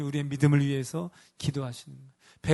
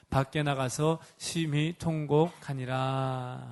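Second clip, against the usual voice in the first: scripture reading. Acted.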